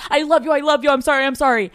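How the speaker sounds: loud pleading repeats; grovel, rushing the apologies; mock groveling. Caught man groveling, loud and rushed. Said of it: "he's like".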